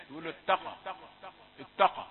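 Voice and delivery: اتقى with the ت darkened toward ط; heavy taa. Shown as a demonstration. Teacher imitating readers who thicken the ت. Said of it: "كثيرون يفخمون التاء".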